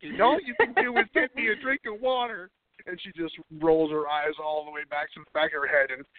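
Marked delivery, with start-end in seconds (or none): 0.0-2.5 hammed-up diva, rising higher at the end; over-the-top diva. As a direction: play a ridiculous demanding diva. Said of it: "over-the-top diva mode".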